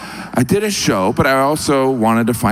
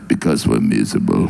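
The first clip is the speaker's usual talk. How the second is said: much lower, deadpan gloomy reply; lightly voiced gloomy Russian. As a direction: say it like a flat fact of life.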